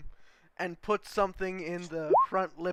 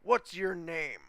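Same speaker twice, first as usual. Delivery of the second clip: gruff commander; slower than usual. Acted. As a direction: bark it down at the new boy like a drill sergeant. GM voices the commander.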